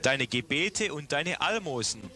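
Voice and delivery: ordinary talk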